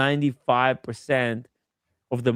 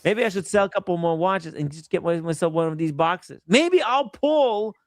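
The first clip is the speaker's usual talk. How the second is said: high, dreamy hopeful gambler; tempted buyer voice; 5 semitones higher than usual. Retold or imitated. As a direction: muse like a buyer chasing a jackpot. Voicing a tempted buyer's thoughts.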